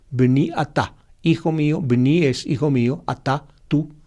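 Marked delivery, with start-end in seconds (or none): 0.1-0.9 "bni atá" said clearly as the Hebrew original; Hebrew pronunciation. Shown as a demonstration. Teacher repeating the Hebrew phrase for listeners, clearly. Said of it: "así se dice en hebreo".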